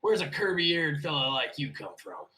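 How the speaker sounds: slow, lightly voiced barman; bartender. Bartender asking a curvy-eared newcomer where he's from, lightly voiced. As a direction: draw the question out as a folksy bartender. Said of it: "bartender walks over from you and he goes".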